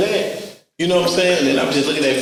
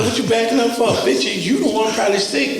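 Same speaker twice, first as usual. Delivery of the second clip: mock confrontation; 6 semitones higher, faster than usual. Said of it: "retold airport confrontation".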